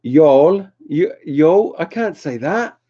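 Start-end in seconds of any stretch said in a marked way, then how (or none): 0.0-1.8 unsure try at a Southern US y'all; Y'all said as a foreign word, rising; attempted y'all accent. Shown as a demonstration. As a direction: try out an American Y'all, unconvinced. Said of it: "that's not in my accent".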